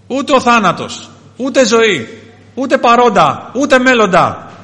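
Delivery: loud, high, punched-out list; ringing pulpit declaration with pauses; impassioned preaching. Real, not acted. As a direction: hammer each item out separately.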